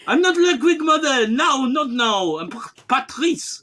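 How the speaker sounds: high, laughing mock child protest; whiny son voice. As Ludwig refusing his mom, whiny and high. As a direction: whine back at mom while laughing.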